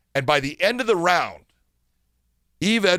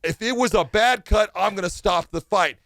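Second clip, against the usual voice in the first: emphatic, raised-pitch scolding; retold firm lecture; 5 semitones higher than usual. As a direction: lay down the law as the doctor. Retold doctor firmly lecturing the referee.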